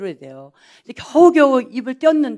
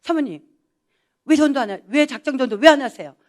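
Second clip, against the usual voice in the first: higher, insistent nagging question; team leader's tone; 4 semitones higher than usual. Retold or imitated. Team leader nagging the pastor's wife to evangelize, insistent higher tone. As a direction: press her like a stern team leader. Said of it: "딱 이 톤으로".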